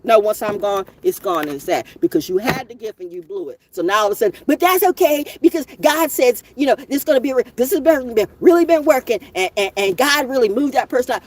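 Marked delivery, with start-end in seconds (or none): 4.5-11.2 mock pious critic. Mocking a critic's pious excuse.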